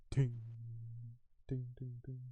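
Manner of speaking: small ringing tings, spaced out; imitated clinking rock. Game master sounds out rock in cave, echoing tings. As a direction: imitate a stone bouncing off into the dark.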